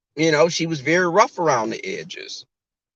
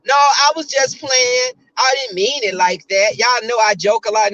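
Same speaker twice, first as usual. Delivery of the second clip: mock backpedal; 4 semitones higher than usual. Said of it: "took it back and said".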